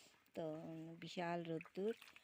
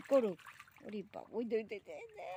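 calling out; 3 semitones higher, 4 dB louder than usual. Real, not acted. Calling to son.

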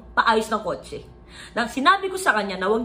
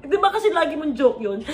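ordinary talk

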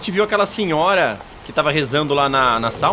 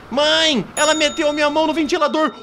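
menino dedurando; 9 semitones higher than usual. Acted. Menino acusa a mulher.

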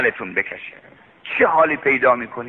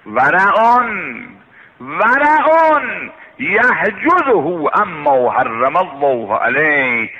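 ورعون drawn out very slowly with weight; preacher reciting a sacred saying, slow and solemn; slow recited quote; slower than usual. Acted. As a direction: intone the Arabic saying word by word. Quoting Arabic saying in sermon.

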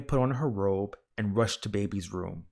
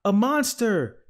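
high, loud cry of alarm; storybook scream of alarm; frightened shout; 12 semitones higher, 7 dB louder, slower than usual. A narrator's reading. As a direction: shout it out in a panic, pitched way up. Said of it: "shouted Baby".

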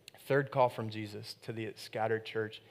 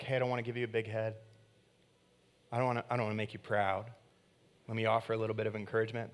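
hedging rush; 3 semitones lower, faster than usual. Retold or imitated. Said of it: "don't do the thing where we're like".

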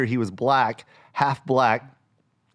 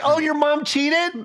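high, slow, scandalized; shocked teacher; 11 semitones higher, slower than usual. Retold or imitated. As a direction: gasp it out like a gossip. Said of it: "like, like".

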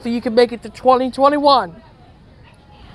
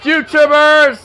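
new year cheer; 3 semitones higher, much slower than usual. Real, not acted. Cheering at midnight.

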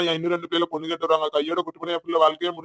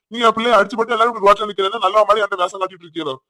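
ordinary talk

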